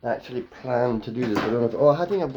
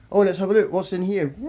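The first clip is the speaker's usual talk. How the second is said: higher-pitched curious visitor; eager visitor; 6 semitones higher than usual. Acted. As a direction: pipe up as a curious guest. Acted visitor answering the guide.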